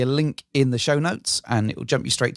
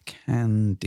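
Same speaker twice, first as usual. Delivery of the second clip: Candyland drawn out low and tasted, savoured in the mouth; savouring the word; 4 semitones lower, slower than usual. Shown as a demonstration. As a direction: roll Candyland around like a sweet. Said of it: "roll that around in your mouth a little bit".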